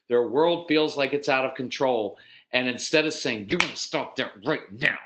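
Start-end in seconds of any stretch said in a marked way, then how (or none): 3.5-5.0 acted demand, spaced out without shouting; mock stern command. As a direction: imitate a parent laying down the law. Mimicked parental command.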